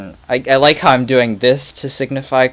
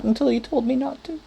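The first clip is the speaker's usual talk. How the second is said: Ned Ryerson; 10 semitones higher, 7 dB quieter than usual. Retold or imitated. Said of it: "Ned the head".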